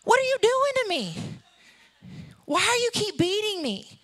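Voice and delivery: high, hammed-up cartoon donkey protest; Eddie Murphy. Donkey protests being beaten by Balaam, aggrieved. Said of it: "I picture Eddie Murphy going".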